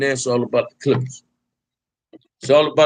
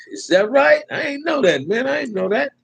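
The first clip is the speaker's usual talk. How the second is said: real surprise, much higher; surprised; 12 semitones higher than usual. Real, not acted. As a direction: pitch jumps way up in disbelief. Surprised reaction to a viewer comment.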